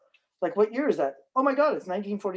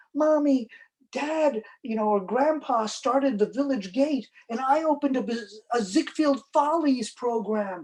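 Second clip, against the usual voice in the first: higher-pitched excited child, lightly voiced; lightly mimicked kid, pitched up; little girl; 6 semitones higher than usual. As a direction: imitate a little girl telling her parents. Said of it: "there was one little girl".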